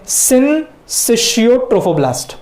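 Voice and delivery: syncytiotrophoblast said slowly as sin-SISH-yo-trophoblast; careful pronunciation. Shown as a demonstration. Teacher introducing the term to students, syncytiotrophoblast pronounced carefully as sin-sishio. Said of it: "बराबर से pronounce करना है".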